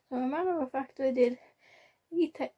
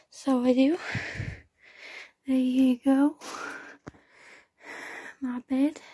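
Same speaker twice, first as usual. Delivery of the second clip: excited; 4 dB louder than usual. Real, not acted. Excited show of hoovered room.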